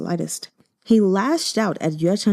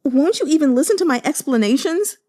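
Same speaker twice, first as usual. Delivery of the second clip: high, crying appeal; tearful plea; 7 semitones higher, faster than usual. Acted. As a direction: beg through tears. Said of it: "tears flowing down his face".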